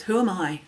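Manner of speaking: quick, run-together WHO AM I, doubtful; "who am I" said dismissively, no weight on AM; self-doubting question. Shown as a demonstration. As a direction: ask WHO AM I as a put-down of yourself.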